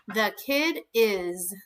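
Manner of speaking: slow, even word-by-word reading; slow dictation. Shown as a demonstration. Teacher slowly sounding out the sentence to kindergarteners. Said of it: "slow sounding-out of sentence".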